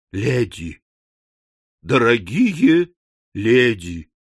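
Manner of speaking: slow, placating address with spaced words; gentle appeal. A narrator's reading. Pickwick emerges before the frightened ladies, placating. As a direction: ease them down, lingering on each word.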